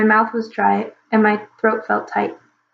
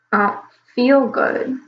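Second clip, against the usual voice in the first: sick; 2 semitones higher, slower than usual. Acted. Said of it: "sick little dragon speaks".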